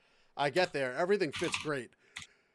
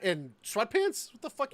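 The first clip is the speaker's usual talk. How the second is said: incredulous retold rant; 9 semitones higher than usual. Retold outrage at clerk.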